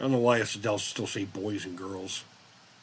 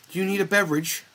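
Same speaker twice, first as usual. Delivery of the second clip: lightly higher, prim servant; polite robot voice; 9 semitones higher, faster than usual. Pretend. Imagined robot butler asking him, a hint of prim servant. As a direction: offer the drink like a courteous butler. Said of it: "it's gonna talk like that".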